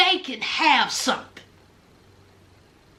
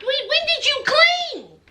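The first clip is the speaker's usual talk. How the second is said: incredulous demand; 8 semitones higher than usual. Retold or imitated. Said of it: "And I'm like".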